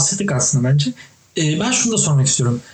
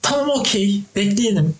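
mock easygoing calm; 4 semitones higher than usual.

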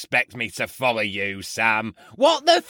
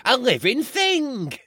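impassioned; 11 semitones higher than usual. Acted. Passionate defence of lover.

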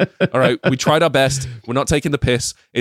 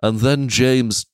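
slow Scouse storybook narration; lightly done Scouse narrator; a singer; 3 semitones lower, slower than usual. Acted. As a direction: read a children's tale in a Liverpool accent. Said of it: "unless it's like a singer".

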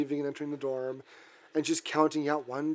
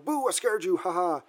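mock teasing boo; 4 semitones higher than usual. Acting out a prankster's boo.

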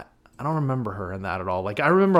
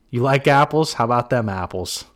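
put-on Boston accent; 4 dB louder than usual. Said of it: "With my masshole accent".

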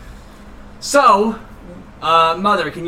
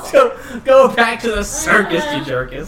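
repeating the excited phrase; 4 semitones higher than usual. Retold or imitated. Player echoing a silly party-game phrase, amused and laughing. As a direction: laughingly call it out, dropping on the last words. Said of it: "that goes with that accent".

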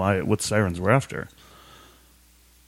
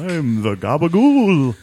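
mobster voice; 4 semitones higher, 4 dB louder, slower than usual. Pretend. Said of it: "you must have met the Gabagool".

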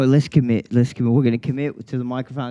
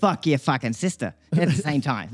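put-on Australian accent. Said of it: "Like this".

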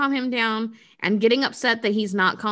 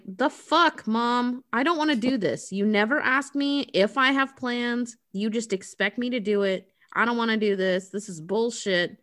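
lightly mocked teenage whine; whiny teenager. Sixteen-year-old protests babysitting to her mom, mildly whiny. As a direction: imitate a teen complaining, fading as it goes. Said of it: "she's whiny".

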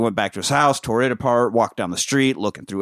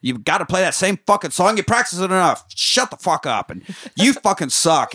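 mock angry grumbling; 5 semitones higher than usual. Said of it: "And I was like".

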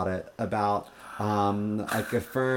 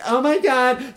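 high, loud mock scream; hammed-up bouncer's shriek; exaggerated cry of alarm, passed down the line; shocked outcry; 13 semitones higher, 8 dB louder, slower than usual.

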